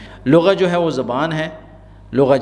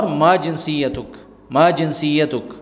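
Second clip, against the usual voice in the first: slow drill; much slower than usual. Shown as a demonstration. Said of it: "teacher drilling phrase slowly".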